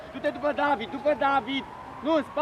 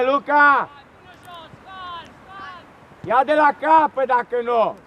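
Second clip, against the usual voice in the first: coach shout; 4 dB louder than usual. Real, not acted. Coach yelling instructions at match.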